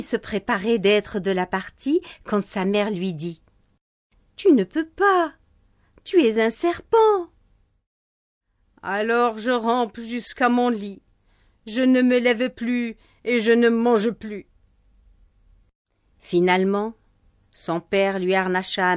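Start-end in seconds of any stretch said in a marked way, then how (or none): 4.4-7.3 higher, louder mother repeating her refusal; mother's firm no. Acted. Mother refuses a third time. 8.8-14.5 put-on sulking child. Child sulks a third time.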